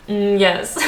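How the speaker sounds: lightly voiced posh Queen, drawn-out "mm"; super posh Queen. Describing London accents, a hint of the super posh Queen. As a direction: imitate a posh royal "mm, yes". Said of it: "super posh".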